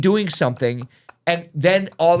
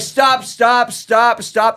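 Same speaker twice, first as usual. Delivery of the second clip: urgent higher shouts of stop, louder; retold shout; 7 semitones higher, 5 dB louder, much slower than usual. Teacher yelling at kids to stop the broadcast, alarmed shout. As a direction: call the class off, fast and loud.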